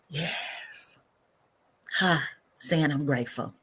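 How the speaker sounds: calm meditation leader, unhurried; guided breathing meditation. Real, not acted. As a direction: let each phrase settle on the breath. Leads a breathing pause.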